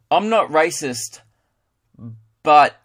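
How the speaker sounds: slow, deliberate Australian demonstration with a punched "but"; Aussie drawl, long pause before the last word; mock Australian. Shown as a demonstration. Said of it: "you wanna know how to speak Australian".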